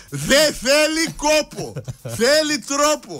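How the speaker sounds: mock slogan. Punchline slogan after the joke.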